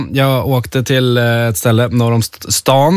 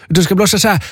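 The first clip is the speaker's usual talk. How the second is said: raised pitch, mock German accent; 6 semitones higher than usual. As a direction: lightly imitate a German woman showing the right way. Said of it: "hon pratade lite så här med tysk accent".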